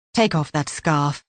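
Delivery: calm on top, steel underneath; level command with hidden threat; deceptively calm. Acted. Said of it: "his tone deceptively calm".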